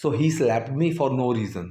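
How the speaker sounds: slow, careful example read; slow dictation; slow model sentence. Shown as a demonstration. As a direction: read it out slowly. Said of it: "थप्पड़ मार दिया बिना वजह".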